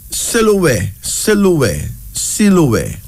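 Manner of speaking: Siloué said slowly as see-loo-weh, stress on the last syllable; careful pronunciation. Shown as a demonstration. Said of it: "pronounced as Siloué".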